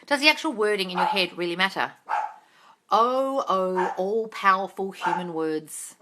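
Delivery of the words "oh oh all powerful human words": slow, sarcastic reverence; mock the idea grandly; mock awe.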